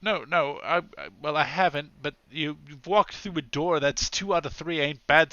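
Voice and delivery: lightly voiced flustered policeman.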